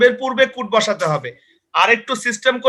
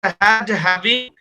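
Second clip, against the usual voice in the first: Had, having drawn out very slowly; slow dictation; much slower than usual. Shown as a demonstration. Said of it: "কি কি বলছি বলো".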